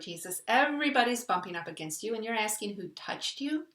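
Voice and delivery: retold disbelief, stressing everybody; mildly exasperated, incredulous question; incredulous disciples. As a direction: point out the obvious in mild disbelief. Disciples' incredulous reply to Jesus, retold.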